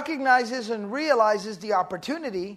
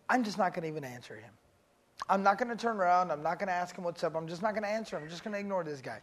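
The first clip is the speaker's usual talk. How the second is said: muttered resolve; 5 semitones lower, 7 dB quieter, faster than usual. Retold or imitated.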